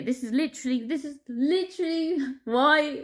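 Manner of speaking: breaking into a helpless laugh on the repeat; laughing in dismay. Real, not acted. Saying it is not funny, laughing despite feeling sick. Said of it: "so I'm laughing".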